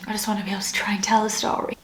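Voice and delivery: fast, breathy whisper through tears; pushing the words out while crying; real teary hurry; tearful whisper. Real, not acted. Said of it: "Sorry about that".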